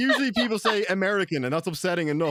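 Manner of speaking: laughing, mock offended; laughing outrage. Real, not acted. The speaker laughing at being called Scouse. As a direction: laugh through the complaint.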